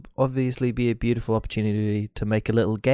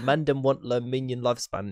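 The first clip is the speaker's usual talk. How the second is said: put-on London roadman accent. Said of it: "And I'll be like".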